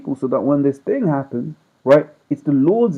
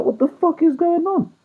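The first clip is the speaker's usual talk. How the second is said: retold outrage. Retelling shock at explicit video.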